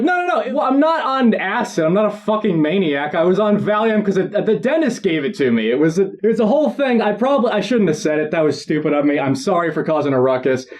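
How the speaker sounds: high, rushed nervous babbling; over-explain in a panic; flustered rambling. Retold or imitated. Flustered patient rambling to the dentist about drugs. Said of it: "And so I'm like".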